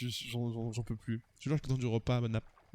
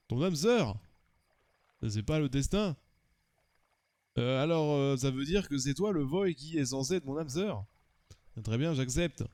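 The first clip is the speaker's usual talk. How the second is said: wobbly put-on Russian accent; grudging acceptance in mock Russian accent; Russian-German accented character. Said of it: "j'ai du mal à tenir l'accent russe".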